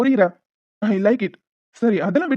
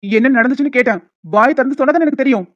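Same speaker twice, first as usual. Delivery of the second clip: louder, firm pressing; stern demand; 3 semitones higher, 5 dB louder than usual. Acted. Boss sternly presses Riya to say what happened. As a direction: insist she answer.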